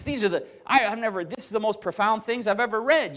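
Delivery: a hint of Peterson gushing; imitating Jordan Peterson. Pastor mimics Peterson calling the Sermon profound, mild awe. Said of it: "that's how he talks".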